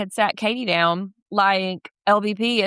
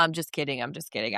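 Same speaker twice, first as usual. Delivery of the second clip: retold backtracking; 7 semitones lower, 10 dB quieter, faster than usual. Retold backtracking after a threat.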